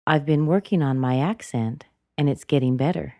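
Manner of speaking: "accent" nudged up then down, pause; rise and fall intonation. Shown as a demonstration. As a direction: let "better" rise and drop to end. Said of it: "Listen again".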